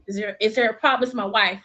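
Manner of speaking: firm, loud protective husband; protective granddad. Retold or imitated. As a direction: stand up for her, firm. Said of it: "He gon'".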